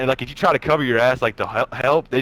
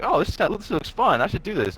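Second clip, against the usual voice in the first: retold excitement; 7 semitones higher than usual. Retelling himself watching dirt bike ride.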